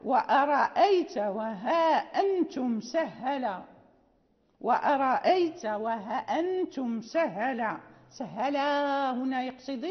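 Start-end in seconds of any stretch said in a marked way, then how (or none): 0.0-7.8 chanted line of the poem, slow; recited verse line. Shown as a demonstration. Teacher chants Ibn Burri's line to the students. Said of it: "فقال".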